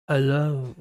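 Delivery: low Yorkshire hello; a broad Yorkshire hello; Yorkshire accent. Pretend. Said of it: "I love your Yorkshire accent".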